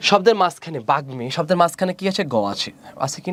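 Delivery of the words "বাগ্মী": "বাগ্মী"-তে গ আর ম দুটোই উচ্চারিত; গ ও ম স্পষ্ট. Shown as a demonstration. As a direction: say "বাগ্মী" as bag-mi, with both g and m sounded. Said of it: "উচ্চারণটা মটা যা আছে তাই রয়ে গেছে". ("বাগ্মী"-র ম বজায় রেখে বাগ-মি বলা)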